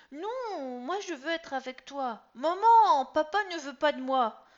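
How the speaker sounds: put-on very high, loud wounded boy; upset teen. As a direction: complain to mum, hurt. Son upset, appeals to mother.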